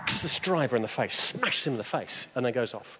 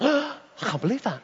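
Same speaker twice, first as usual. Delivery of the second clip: disbelief; 10 semitones higher than usual. Retold or imitated. Astonished at sudden healing.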